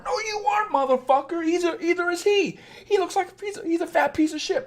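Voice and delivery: high-pitched, scornful rebuttal; high, derisive mock rant; mock outrage. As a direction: shoot the flattery down in a high, scornful voice. Mock rebuttal of flattering coach.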